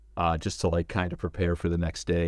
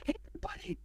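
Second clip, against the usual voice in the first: high-pitched mock yell to a crowd; retold yell; faster than usual. Drummer announcing the director to whole warehouse, mock yell. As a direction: imitate calling out across a warehouse, pitched way up. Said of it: "he yells to the whole warehouse".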